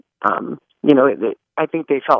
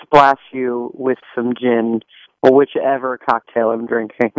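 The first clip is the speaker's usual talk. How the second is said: playfully evil. Pretend. Actress teases the interviewer about front row seats, playfully evil. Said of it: "That was both funny and evil. You're just like Miss Hannigan".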